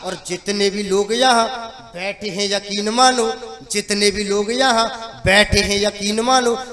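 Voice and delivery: measured, rhythmic stage poetry; verse recitation. Acted. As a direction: lay out the verse for the audience. Recites his comic verse. (लयदार कविता पाठ)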